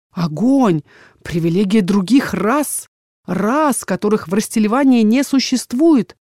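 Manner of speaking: father smugly dismissing the dragon's loss; scheming father. Acted. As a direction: savour every prospect you see. Father muses on the prospects.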